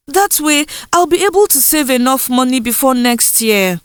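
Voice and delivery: lightly voiced young girl, pleading; a hint of a girl begging her mother; voiced daughter Indusa. Indusa tells mother her plan.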